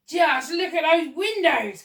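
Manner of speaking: high, loud, drawn-out marvelling; excited cry. A narrator's reading. Monkey marvels at the palace windows, excited cry. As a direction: cry out in awe at the sight. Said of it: "cried the monkey".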